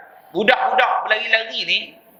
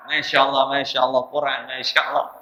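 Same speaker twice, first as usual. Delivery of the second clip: startled shopkeeper; 6 semitones lower than usual. Retold or imitated. Arab shopkeeper realises Quran.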